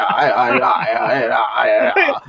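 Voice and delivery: low, goofy put-on caller voice; scam-baiter character voice. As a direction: drop the voice low and play dumb. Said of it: "you're like this".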